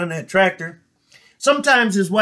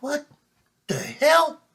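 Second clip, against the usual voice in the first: high, baffled mutter of confusion; can't make sense of her signal; puzzled farmer; 8 semitones higher, 5 dB quieter, slower than usual. Acted. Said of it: "he's like".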